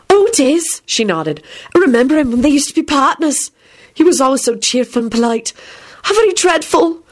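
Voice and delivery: high, genteel lady's voice; sympathetic lady. A narrator's reading. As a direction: cluck with high-pitched polite sympathy.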